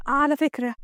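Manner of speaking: lightly acted woman taking the boss to task; mildly reproachful employee; protesting female employee. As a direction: object politely, in the lighter woman's voice.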